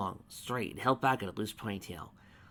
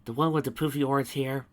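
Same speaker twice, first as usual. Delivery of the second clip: exasperated; 5 semitones higher, 5 dB louder than usual. A narrator's reading. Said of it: "she added, exasperated".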